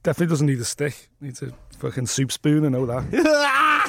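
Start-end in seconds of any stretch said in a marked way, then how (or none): 2.7-3.9 laughing. Real, not acted. Laughs at own joke.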